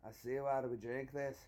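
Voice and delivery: lightly mimicked Scottish drinker; Scottish accent. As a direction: put on a mock Scottish accent. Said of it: "talk Scottish automatically after the wine".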